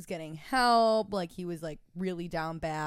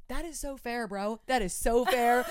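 laughing; 3 semitones higher, 4 dB louder than usual. Retold or imitated. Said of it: "And I was like".

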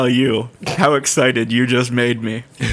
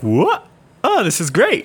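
voicing his gut; 8 semitones higher, slower than usual. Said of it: "It was just like".

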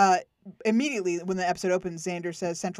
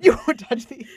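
mock tough-guy line; 4 semitones higher, 7 dB louder than usual. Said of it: "Nicholas Brennan was like".

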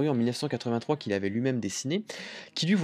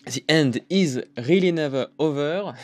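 English title in a laboured, heavy accent, louder; thick English accent; 3 semitones higher, 5 dB louder than usual. Real, not acted. French radio host announcing an English album title, thick English accent. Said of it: "Ouf, gros accent anglais".

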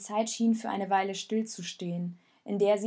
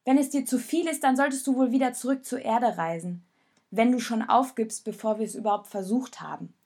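raised, scornful taunt; mocking; 3 semitones higher, 5 dB louder than usual. Jonas mocks Raoul for wanting to go home. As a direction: sneer at his giving up. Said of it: "Der Spott in Jonas Stimme war nicht überhörbar".

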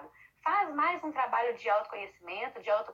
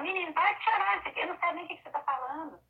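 scolding parent; 6 semitones higher than usual. Retold or imitated. Parent snapping at a crying boy, mock exasperated scolding. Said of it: "Não é ficar falando".

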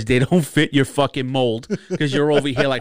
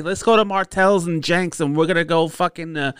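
put-on Jersey girl; 5 semitones higher than usual. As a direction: mimic a Jersey party girl. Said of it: "Your type is like".

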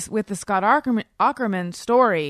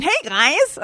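sexy voice; 9 semitones higher, 6 dB louder than usual. Shown as a demonstration. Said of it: "do it sexy right now".

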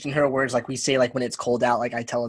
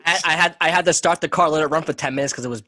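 put-on New York accent; mock New York slang; stereotypical New York; 4 dB louder than usual. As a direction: join in as the stereotypical New Yorker. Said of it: "pretend to talk as stereotypical New York as possible".

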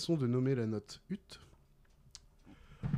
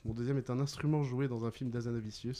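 quicker, lower-key rereading; brisk recap; 3 semitones lower, 4 dB quieter than usual. Real, not acted. Quizmaster repeats the film clue, briskly. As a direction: run through the clue in one breath.

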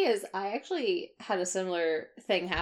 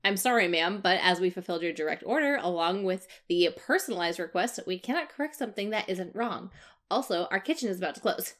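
customer service voice. Retold or imitated. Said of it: "I keep my chirpy customer service voice".

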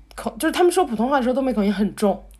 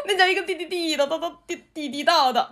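put-on Beijing accent; 3 semitones higher than usual. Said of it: "特别喜欢学北京话".

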